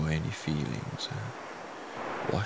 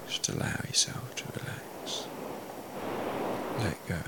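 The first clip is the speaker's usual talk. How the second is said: right in your ear; 5 dB quieter than usual. Acted. Hypnotist coaxing deep relaxation.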